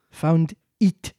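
cross. Acted. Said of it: "the mouse replied rather crossly".

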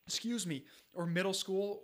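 getting choked up, fighting tears. Real, not acted. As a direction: voice tight with emotion, choked up. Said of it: "I'm getting choked up talking about this".

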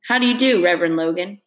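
snide greeting. Acted. T J mocking Stacy's new coat, snide and sneering. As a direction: sneer at him with fake politeness. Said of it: "said snidely".

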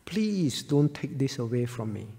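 hushed, pleading martyr, almost a whisper; pleading softly. Acted. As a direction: beg quietly not to lose the chance. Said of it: "He pleaded".

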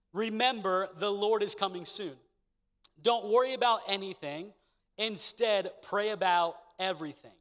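measured, deliberate Bible reading; scripture reading. Acted. Reads the scripture passage.

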